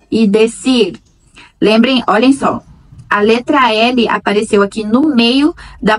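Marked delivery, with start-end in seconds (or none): 0.1-1.0 each Spanish word spoken slowly and loudly for repeating; slow clear Spanish. Shown as a demonstration. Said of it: "Eu pronuncio e vocês pronunciam depois".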